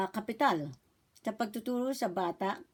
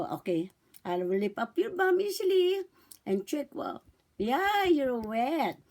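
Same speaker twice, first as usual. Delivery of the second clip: put-on talking to a baby; slower than usual. Shown as a demonstration. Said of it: "Sasabihin niyo po".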